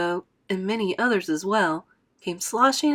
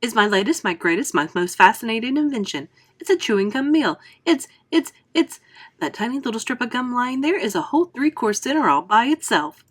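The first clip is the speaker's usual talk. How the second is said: a touch louder, boastful showman; lightly voiced proud inventor; 3 semitones higher, 4 dB louder than usual. Wonka boasting to the children, lightly played showman.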